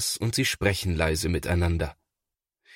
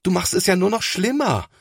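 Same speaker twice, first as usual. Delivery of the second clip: put-on high, exasperated boy's voice; lightly voiced alarmed boy; upset older brother; 12 semitones higher, 3 dB louder than usual. A narrator's reading. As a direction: scold him in dismay. Thomas scolds little brother.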